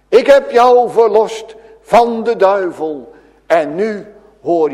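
Jesus assures the healed woman she is his; earnest promise. Acted. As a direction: press each word home slowly. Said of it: "daardoor laat hij zien".

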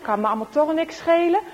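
fast, high, careless shrug of a line. Acted. Boy muttering to himself, carelessly. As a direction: toss it off like a sulky boy. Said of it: "hij kijkt zo van".

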